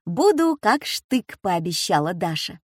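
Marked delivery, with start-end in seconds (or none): 0.1-1.4 loud, high, slow and firm; eager promise. A narrator's reading. Granddaughter promising to visit, eager and firm. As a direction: promise it like a soldier.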